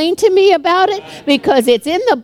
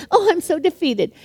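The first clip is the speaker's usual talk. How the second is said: higher-pitched, self-pitying mock wail; mock boo-hoo cry; 4 semitones higher than usual. Preacher mimicking a believer crying to the devil, mock boo-hoo. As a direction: play the defeated crier, mildly hammed up. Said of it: "not boo-hoo cry".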